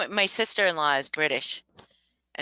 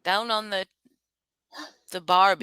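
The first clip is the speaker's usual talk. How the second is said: put-on Australian accent. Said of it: "I cannot do it".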